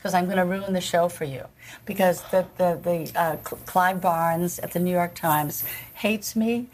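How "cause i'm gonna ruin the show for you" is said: soft, shaky plea near tears; trembling, about to cry; tearful plea. Retold or imitated. Retelling begging the director, softly near tears. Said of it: "I was trembling and on the verge of tears".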